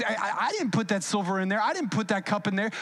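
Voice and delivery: quick, stammered denial; hurried protest. Acted. Judah insisting he didn't put the cup there, hurried protest. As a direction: rattle it off as a mild self-defence.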